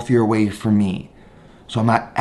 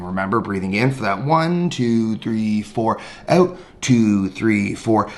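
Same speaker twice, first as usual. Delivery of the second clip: slow, lower counting of breaths; guided breathing count; 3 semitones lower, slower than usual. Shown as a demonstration. Teacher guiding students through a breath count. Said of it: "this idea of four in, four out breathing".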